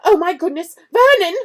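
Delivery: high, loud frantic calls; aunt panicking to her husband; panicked cry. A narrator's reading. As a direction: shriek his name in alarm.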